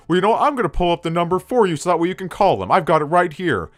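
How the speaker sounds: high put-on teacher voice, smug; mock teacher. The narrator mocks the teacher offering to pull up the number. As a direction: lift the pitch into a smug teacher. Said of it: "he's like".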